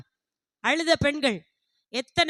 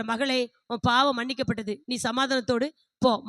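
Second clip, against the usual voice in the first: lower, gently retold absolution; the Lord, reassuring; 4 semitones lower, 3 dB quieter than usual. The Lord forgives the weeping woman, gently reassuring. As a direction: lightly voice a reassuring pardon. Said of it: "அப்பதான் ஆண்டவர் சொல்ற".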